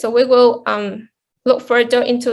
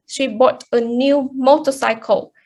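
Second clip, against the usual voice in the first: "motorcycle" stressed at the sentence end. Shown as a demonstration. Presenter naming the thing bought, stress on "motorcycle". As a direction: put the weight on the final "motorcycle". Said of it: "the thing she bought here is a motorcycle".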